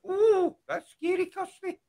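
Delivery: imitating a frightened plea; cowering plea. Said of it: "I mean, like".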